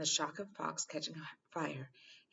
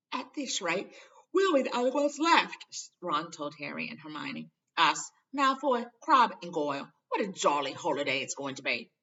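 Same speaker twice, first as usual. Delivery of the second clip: lively Ron; 9 dB louder than usual. A narrator's reading. Ron's gloomy loud complaint.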